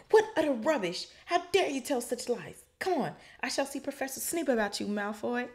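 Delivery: high, loud stern scolding; stern McGonagall. A narrator's reading. McGonagall dismissing Malfoy's lies, high stern scolding. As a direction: scold like an outraged Scottish teacher.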